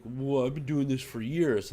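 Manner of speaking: slow, put-on grumpy old man drawl; mock old man voice. Teller mocking the old customer's excuse, slow put-on old voice. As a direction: ham up the smug old customer, slowly. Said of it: "he's like".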